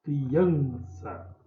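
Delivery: "Criança" with AN drawn out; teacher's demo of "Criança", AN stressed; stressed penultimate syllable. Shown as a demonstration. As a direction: lean on the middle of "Criança", cri-AN-ça. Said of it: "sempre a penúltima sílaba é a tônica".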